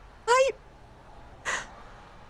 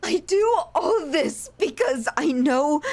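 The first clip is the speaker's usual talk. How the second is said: laughing. Acted. Confessing obsession, breaks into laugh.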